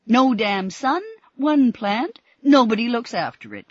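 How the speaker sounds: loud, high, still raging; violent outburst. A narrator's reading. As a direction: keep the furious rant going. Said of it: "said Missus Mitchell violently".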